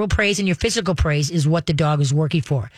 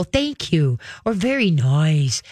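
calm praise; 2 semitones lower, slower than usual. Shown as a demonstration. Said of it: "call 'em and go".

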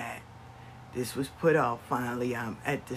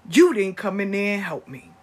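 put-on child's angry accusation; 3 semitones higher, 9 dB louder than usual. Grandson accusing mother, loud and hurt. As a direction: blame her for not coming. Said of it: "He said".

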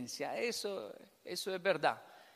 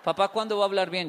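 louder, pleading with a broken-Spanish father; exasperated plea to dad; 7 dB louder, faster than usual. Retold or imitated. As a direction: beg him to finally speak properly. Child pleads with Japanese father.

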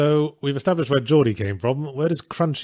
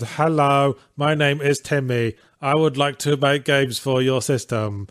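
slow, deliberate mock letter to a company; hopeful letter writer Timmy; slower than usual. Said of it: "if I contacted them and said".

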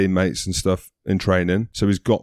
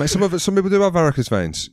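laughing protest; 10 semitones higher, faster than usual. Real, not acted.

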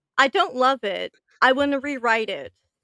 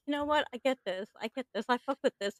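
quiet amused acceptance; 9 dB quieter, faster than usual. Retold or imitated. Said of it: "you're just like".

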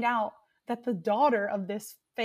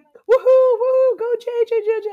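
high, much louder woohoo; loud cheering; 12 semitones higher, 11 dB louder than usual. Retold or imitated. Group cheers for a guy at the bar, loud high woohoo. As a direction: cheer him on like fans. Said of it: "we're like".

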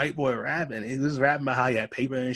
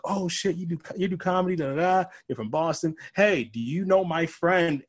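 excited; 5 semitones higher than usual. Retold or imitated. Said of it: "He's like".

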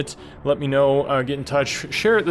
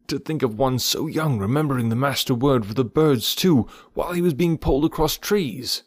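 lightly voiced proud bear, pitched up; 4 semitones higher than usual. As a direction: marvel proudly at your young pupil. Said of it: "said Baloo with a chuckle of pride".

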